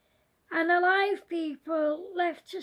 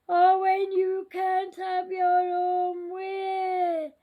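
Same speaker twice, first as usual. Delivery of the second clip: scary voice. Acted. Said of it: "Then the scary voice said".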